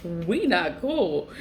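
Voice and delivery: slow, chuckling echo of her own line; laughing repeat. Real, not acted. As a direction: laugh it out slowly.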